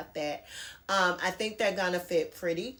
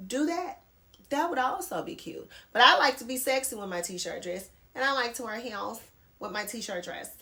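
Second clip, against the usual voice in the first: playful, lightly affected sing-song; a hint of a mock prissy voice; funny put-on voice; 2 semitones higher than usual. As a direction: put on a silly voice for fun. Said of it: "I don't know why I'm talking like this".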